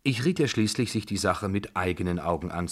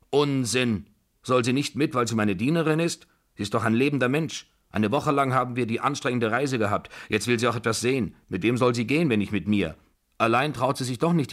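put-on higher, louder, scolding old matriarch; indignant Babuschka; 5 semitones higher, 4 dB louder than usual. Babuschka defending her maid to the General, indignant. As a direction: argue forcefully, brooking no objection.

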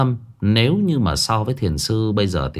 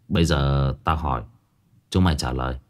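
much lower, softer, stern; 8 semitones lower, 3 dB quieter than usual. Acted. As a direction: drop the voice low and stern. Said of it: "mà trầm giọng". (trầm giọng nghiêm khắc)

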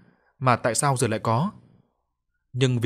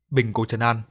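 usual speaking voice

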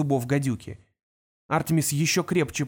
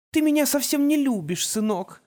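cooing; 10 semitones higher than usual. A narrator's reading. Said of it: "проворковала Ангелина".

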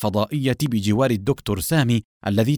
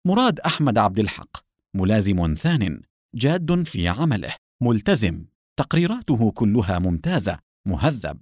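reading aloud. A narrator's reading. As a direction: read a personnel file off a screen, item by item. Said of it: "أخذ يقرأ المعلومات".

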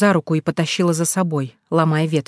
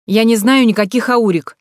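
irritated; 5 semitones higher, 5 dB louder than usual. A narrator's reading. Snapping at stranger through door.

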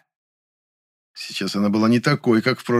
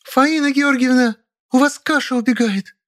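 calling from the kitchen; 3 dB louder than usual. A narrator's reading. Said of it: "донёсся возглас Музы". (протяжный высокий возглас Музы из кухни)

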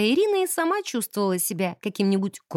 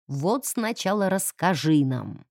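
indignant; 4 semitones lower, slower than usual. Acted. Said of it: "начала возмущаться".

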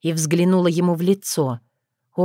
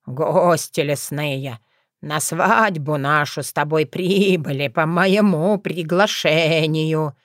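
calm lying; slower than usual. Acted. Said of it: "не моргнув глазом, соврал".

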